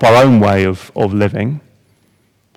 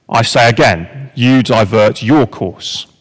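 calm Canadian voice; 2 semitones lower, slower than usual. Retold or imitated. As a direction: answer the captain's order flatly, not giving an inch. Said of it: "The voice says".

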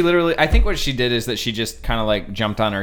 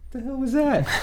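pitched-up startled retelling; mock startled yelp after getting bumped; 13 semitones higher than usual. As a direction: jump up high like a sudden jolt from behind. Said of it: "It's like".

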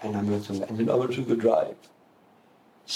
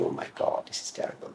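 whispered thought; 7 dB quieter than usual. Retold or imitated. Private thought seeing bad schematic.

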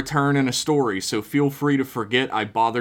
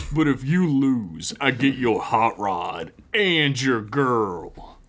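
slow menacing bully; slower than usual. Acted. Bully makes his threat.

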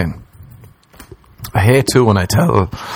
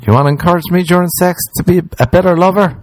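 mock scorn; 10 semitones higher, faster than usual. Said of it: "mocking motivation".

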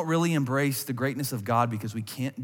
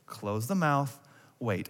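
tag; 5 dB quieter, slower than usual. Acted. Dad calming his girls.

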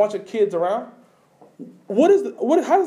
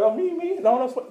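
much higher, startled "me, me?"; surprised disbelief; 5 semitones higher than usual. Retold or imitated. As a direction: react as if you can't believe you're picked. Believer surprised at being called.

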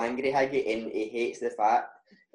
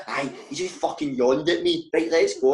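retold anger; 3 semitones higher than usual. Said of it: "That's how angry he was".

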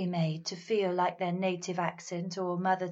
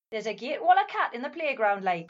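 put-on Geordie accent; 3 dB louder, faster than usual. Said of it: "In Newcastle, if a child said that".

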